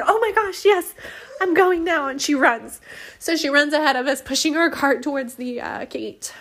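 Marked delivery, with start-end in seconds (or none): 0.1-2.1 high, laughing eager yes; imitating a delighted helper, lightly; excited agreement. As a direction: retell her happy rush, pitched up. Stranger eagerly agrees to run.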